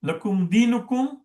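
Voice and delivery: slow recitation leading to a voweled "dini"; kasra on the final noon. Shown as a demonstration. Teacher repeating the ayat for the class, slow careful recitation. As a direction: recite "Lakum dinukum" slowly and measured. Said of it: "noon has a kasra".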